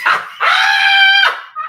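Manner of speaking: loud high shrieking cackle; howling laughter. Real, not acted. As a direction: burst out in a screaming laugh. Big laugh.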